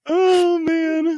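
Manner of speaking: high, loud sigh through laughter; helpless with real laughter; laughing hard. Real, not acted. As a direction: wind down from a big laughing fit. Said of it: "I'm laughing so hard".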